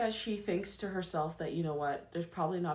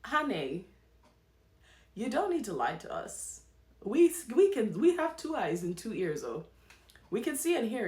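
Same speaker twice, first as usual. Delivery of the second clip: sassy, louder, scolding the couple directly; sassy call-out; 2 semitones higher, 3 dB louder than usual. Acted. Vlogger calling out the couple's lies, sassy and loud. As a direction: hit them with a knowing "honey" and call the bluff. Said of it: "And I'm thinking".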